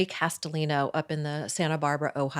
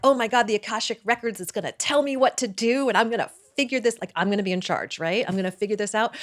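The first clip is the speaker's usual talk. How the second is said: excited inner voice; 2 semitones higher, much faster than usual. Retold or imitated. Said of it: "I was all excited".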